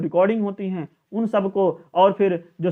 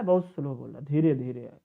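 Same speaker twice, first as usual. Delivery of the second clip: lower, softer, slowed down; soft slow demonstration; slow and soft demo; 6 semitones lower, 6 dB quieter than usual. Shown as a demonstration. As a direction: drop the voice to show slow speech. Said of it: "loudly और वो वीक वाला होता है ना".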